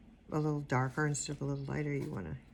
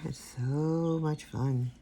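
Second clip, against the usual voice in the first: wry sarcasm; 3 dB louder, much slower than usual. Real, not acted. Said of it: "Not really".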